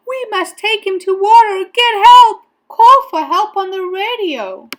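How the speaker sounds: high, loud, pressing orders; urgent plea. A narrator's reading. Boy begging policeman to radio for help, urgent shout. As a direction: press him to act at once.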